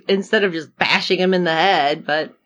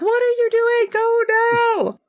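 high, squealed mock alarm; hammed-up frantic outcry, very high; retold panic. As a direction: plead with the screen in mock horror. Flailing panic at the screen.

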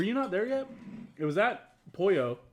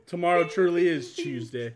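slow, louder mock British; fake British accent; 3 semitones higher, 5 dB louder than usual. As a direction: lay on a hammed-up British accent, slowly. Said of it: "fake British accents".

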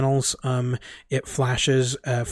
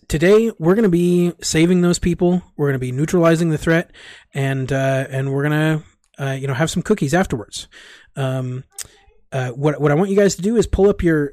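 upbeat coach Dan; 2 semitones higher, 3 dB louder than usual. Acted. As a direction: pitch it like a peppy coach selling fun. GM voices Dan's mission briefing.

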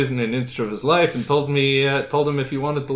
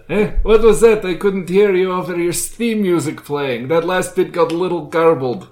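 put-on deaf old man voice; 4 semitones higher, 4 dB louder than usual. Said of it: "He says".

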